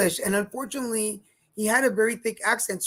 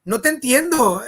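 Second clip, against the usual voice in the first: louder, higher baffled reply in Spanish; exasperated Spanish; 3 semitones higher, 7 dB louder than usual. Retold or imitated. Tourist at hotel reception can't understand the clerk, exasperated. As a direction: tell the clerk you don't understand him. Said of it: "I'm like".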